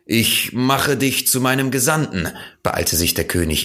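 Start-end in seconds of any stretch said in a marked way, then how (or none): 0.1-2.3 higher, calling out after someone leaving; hurried call to the departing prince; calling after him. Acted. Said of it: "ihm nachzurufen". (dem Gehenden hastig nachrufen)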